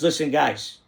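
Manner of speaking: light imitation of Italian-accented English; a hint of an Italian immigrant; broken Italian accent. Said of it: "in a broken accent".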